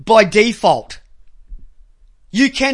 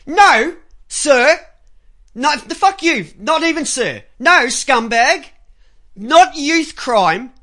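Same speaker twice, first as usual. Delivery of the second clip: angry rant; 3 semitones higher than usual. Real, not acted. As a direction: bark each insult. Host yells at the reporter.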